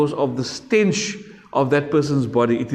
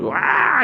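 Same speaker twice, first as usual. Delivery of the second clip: short imitated crying wail, a touch higher; mock baby wail; 6 semitones higher than usual. Teacher imitating a damned soul wailing like a baby. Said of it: "screaming and crying".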